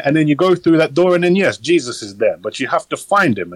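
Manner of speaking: casual New Zealand priest, imitated lightly; a hint of a New Zealand accent, breezy and matter-of-fact. Quoting the funeral priest's speech in a light New Zealand accent. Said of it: "with that New Zealand accent as well".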